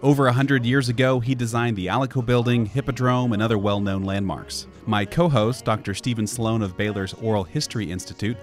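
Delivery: polished, emphatic announcer-style welcome; scripted show opener, lively and measured; podcast intro read. Acted. Host welcoming listeners to Waco history podcast, scripted intro read.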